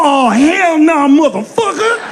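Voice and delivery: offended black audience. Retold or imitated. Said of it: "But then I go too far".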